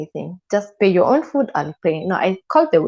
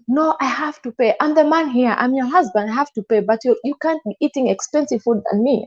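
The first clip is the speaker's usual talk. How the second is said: a touch of the husband's high, insistent pride, pitched up; husband insisting; 5 semitones higher than usual. Retold or imitated. Husband to wife in restaurant, higher insistent voice. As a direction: play the proud husband demanding to pay, raised pitch.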